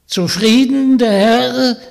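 put-on high, loud croaky old witch voice; croaking witch. Witch inviting Vanya home, croaking and sly. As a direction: play the sly old hag inviting him along.

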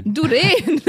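gleeful high "Du den" with a long last syllable; new stress. Shown as a demonstration. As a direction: sing out the end of "Du den", stressed late. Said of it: "wie wir jetzt sagen".

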